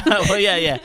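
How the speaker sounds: loud and high, laughing through the words. Real, not acted. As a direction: answer while still laughing hard. Laughing at co-host's remark.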